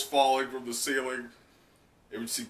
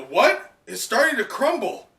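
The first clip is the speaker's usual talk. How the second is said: higher, louder alarmed cries; alarmed onlookers; 10 semitones higher, 5 dB louder than usual. Acted. Crowd seeing the island crumble, alarmed. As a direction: gasp it out in alarm. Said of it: "and they go".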